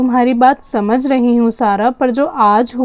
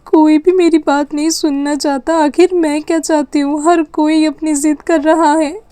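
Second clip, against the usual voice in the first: put-on a hurt girl fighting back sobs; tearful; 3 semitones higher than usual. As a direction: close to tears, voice catching on the words. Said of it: "आप क्यों रो रहे हो".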